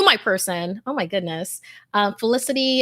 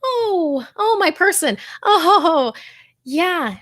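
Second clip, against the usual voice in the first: choked up; 8 semitones higher, 4 dB louder, slower than usual. Real, not acted. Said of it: "I'm about to cry".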